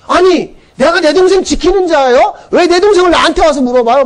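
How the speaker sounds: high-pitched mock indignation; angry talking back. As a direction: retort defiantly, acting out an offended brother. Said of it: "막 화를 내요".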